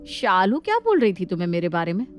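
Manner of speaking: a touch of sneering at the younger one; indignant elder sister-in-law. Acted. Elder sister-in-law complains to Nandini about Shalu, scornful.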